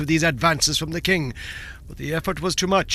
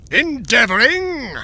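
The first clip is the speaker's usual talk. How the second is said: louder, higher, slow fierce demand; fierce cry; 7 semitones higher, 7 dB louder, slower than usual. A narrator's reading. The tyrant fiercely repeating the dwarf's word. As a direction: fling the word back at him in anger. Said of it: "cried the tyrant fiercely".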